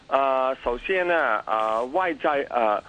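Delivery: Mandarin with a heavy Cantonese accent. Real, not acted. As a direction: Cantonese speaker talking Mandarin. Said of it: "我的廣-，普通話唔好".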